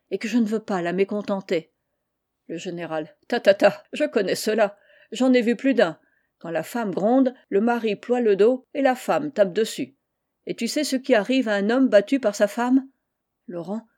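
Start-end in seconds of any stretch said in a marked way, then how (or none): 3.3-12.9 put-on a hearty old general, a touch louder; lightly voiced blustering general; general's voice. The general speaks to Moutonnet. (vieux général jovial, un peu plus fort)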